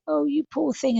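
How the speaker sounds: a hint of a cooing sympathizer; mock pity. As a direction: lightly play someone gushing sympathy. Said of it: "it's not the best thing to say".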